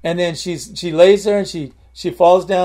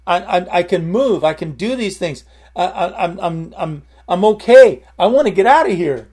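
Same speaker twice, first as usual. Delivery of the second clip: retold excited cry, building louder; excited calling out; 4 dB louder than usual. Healed patient calls the nurses in, excited calling out. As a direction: call out the news, bursting louder at the end. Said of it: "she yelled at the, she called".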